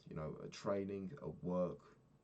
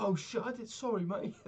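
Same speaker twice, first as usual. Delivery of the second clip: high, laughing sheepish sorry; dad laughing as he apologises to his son; laughing apology; 5 dB louder than usual. Retold or imitated. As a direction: laugh through an awkward apology.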